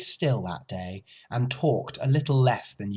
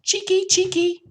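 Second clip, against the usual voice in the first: very high, loud chattering cheeky; scolding swallows; 4 dB louder than usual. A narrator's reading. Swallows scolding someone entering the barn, shrill chatter. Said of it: "they say".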